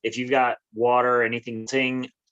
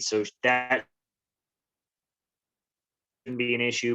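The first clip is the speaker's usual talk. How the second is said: choppy, breaking-up phone audio; corrupted glitchy audio. Real, not acted. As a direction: voice cutting in and out. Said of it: "your audio's cutting out quite a bit".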